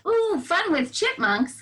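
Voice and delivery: imitating excited kids, drawn out; hammed-up delighted ooh. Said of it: "a lot of you were like".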